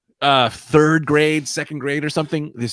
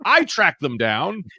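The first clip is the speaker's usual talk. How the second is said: much higher, louder, falsely proud; fake helpful hero; 12 semitones higher, 4 dB louder than usual. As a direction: play the hero who found the stolen goods. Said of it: "I might be like".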